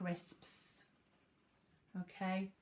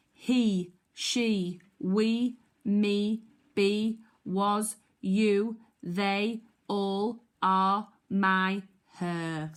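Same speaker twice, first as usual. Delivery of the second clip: loud drill; 6 dB louder, much slower than usual. Shown as a demonstration. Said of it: "join in with our tricky words".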